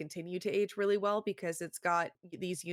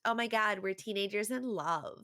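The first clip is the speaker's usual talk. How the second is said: mock lovestruck teen; 4 semitones higher than usual. Mocking shallow teen love stories, gushing. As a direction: gush like a smitten teenager. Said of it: "more meaning than just".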